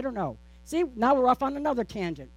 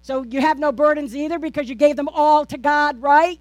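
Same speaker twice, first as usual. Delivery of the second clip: louder, punchier second take with a loud rising right; more forceful retry; 3 semitones higher, 6 dB louder than usual. Shown as a demonstration. Pastor redoing a line to rouse the congregation, louder. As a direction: say it again with more conviction. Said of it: "All right, let's try that again".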